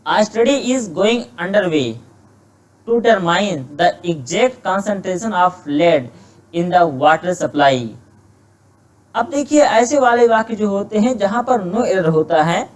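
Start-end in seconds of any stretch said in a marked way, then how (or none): 0.1-7.8 slow, careful reading of an exam sentence; slow dictation reading. Shown as a demonstration. Teacher slowly reading a test sentence to students, measured dictation pace. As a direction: read each word out slowly for the class.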